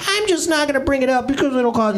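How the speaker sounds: high, self-pitying martyr whine; false martyr. Retold or imitated. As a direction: play the long-suffering martyr. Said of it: "falsely martyr-wise".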